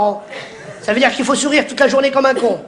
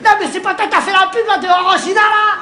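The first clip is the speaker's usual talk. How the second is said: imitated stranger; 8 semitones higher than usual. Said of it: "un mec vient voir, me dit".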